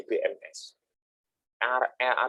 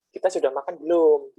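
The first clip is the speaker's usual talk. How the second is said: polite Makassar question; 6 semitones higher, 6 dB louder than usual. Retold or imitated. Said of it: "halus menghormati gitu".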